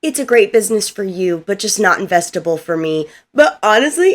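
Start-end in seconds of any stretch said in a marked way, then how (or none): 0.0-3.1 mildly deadpan retold brush-off; monotone. Reviewer quoting Mark turning down a pitch, in mild monotone. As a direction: imitate a tired, automatic monotone. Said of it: "he said it so monotone".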